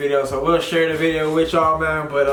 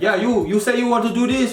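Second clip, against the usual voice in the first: mock Asian accent; 8 semitones higher than usual. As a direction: caricature an Asian shopkeeper's accent, pitched up. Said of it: "he start putting an Asian guy accent".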